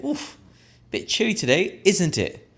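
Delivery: high, chatty chill complaint; shivery small talk. Shown as a demonstration. Customer chatting in a coffee shop, high and shivery. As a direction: make friendly small talk about the cold.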